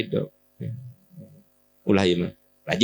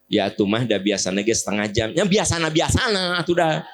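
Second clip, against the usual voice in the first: acted domestic squabble; bickering couple. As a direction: argue back hurriedly, pitch rising. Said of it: "ibu ngomel ka salaki".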